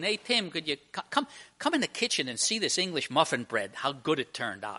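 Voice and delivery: light, everyday call from the kitchen; casual invitation. Acted. Wife asking her husband to see the muffin bread, casual. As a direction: ask casually, nothing pressing. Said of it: "One is just a, you know, interesting thing".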